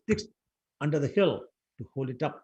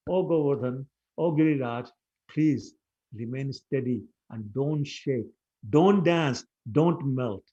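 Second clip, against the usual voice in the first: louder pleading cry to the hill; urgent prayer; 6 dB louder, slower than usual. Acted. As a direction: beg the hill loudly not to move. Cowherd boys praying urgently.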